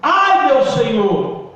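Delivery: slow, drawn-out cry of appeal. Retold or imitated. Preacher re-enacts the man who lost the axe, pleading cry. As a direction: call out to the Lord, long vowels. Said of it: "A Bíblia diz que ele clamou".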